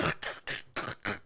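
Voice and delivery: soft, voiceless put-on snicker; sniggling. Shown as a demonstration. Man looking at his phone, pretend sniggling. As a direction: snicker to yourself over your phone. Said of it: "laughing and cheesing and sniggling".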